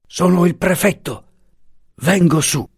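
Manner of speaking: officer calling from the churchyard. A narrator's reading. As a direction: announce yourself upward. Answering call from below.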